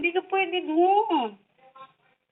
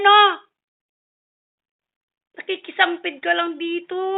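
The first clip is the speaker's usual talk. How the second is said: playful scolding, higher and louder; mock scolding; 4 semitones higher, 5 dB louder than usual. To the stray cat on the shelf, mock scolding. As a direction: scold the cat like a naughty child, half joking.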